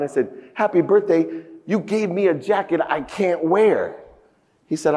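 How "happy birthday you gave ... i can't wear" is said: indignant comeback, pitched up; mild acted outrage, higher voice; retold indignation. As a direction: throw the greeting back at him, offended. Retold quarrel with his father.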